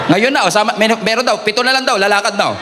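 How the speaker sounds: teasing the crowd through laughter; laughing tease. Real, not acted. Pastor teasing the congregation, laughing. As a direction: chuckle while joking about leaving now.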